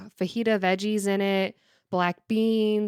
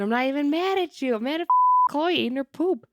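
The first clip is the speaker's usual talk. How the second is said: frustrated outburst; 7 semitones higher than usual. Retold or imitated. Frustrated retort about dog.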